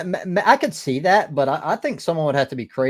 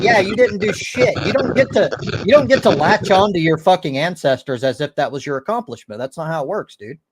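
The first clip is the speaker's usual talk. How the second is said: mock angry retort; 5 dB louder than usual. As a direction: retell a scolding comeback forcefully. Acted retort in retold argument.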